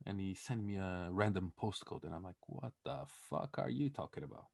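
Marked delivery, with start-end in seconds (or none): 2.5-4.5 softly baffled, higher than usual; retold bafflement. Friend baffled by a random postcode, retold incredulity.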